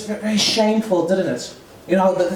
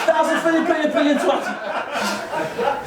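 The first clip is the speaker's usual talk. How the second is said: higher mock housewife voice; wife asking husband; 6 semitones higher, slower than usual. Housewife repeats her huge money request to husband, higher acted voice. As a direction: lightly play the wife, pitched up. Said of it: "going up to her husband going".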